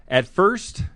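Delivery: slow, playful read-aloud with pauses; comic reading aloud. Shown as a demonstration. Host reading a menopause joke aloud, slowly and playfully. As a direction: read it like a funny bedtime tale. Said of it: "I'll read it".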